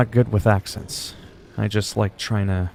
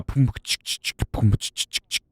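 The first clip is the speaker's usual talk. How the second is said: mock techno beatbox; 5 dB quieter than usual. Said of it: "and they go".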